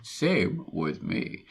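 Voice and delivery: slow, stretched-out reply; drawn-out quoted agreement. Acted. Host repeating the brief agreement, slow and drawn-out. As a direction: draw each word out slowly.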